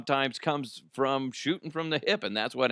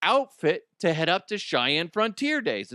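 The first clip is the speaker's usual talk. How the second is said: mock host voice; 6 semitones higher than usual. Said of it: "he goes".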